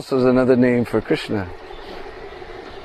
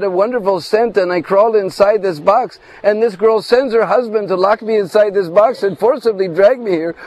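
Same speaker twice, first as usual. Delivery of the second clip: pleading innocence; 5 semitones higher than usual. Acted. Krishna defends himself playfully.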